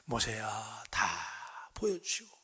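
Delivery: 나직하고 느리게 달래는 목소리; 아이 재우듯 조용히, 길게 늘여; 다정한 하나님. Acted. 하나님이 모세를 달래는 장면. (다정하게 속삭이듯 낮은 하나님 목소리)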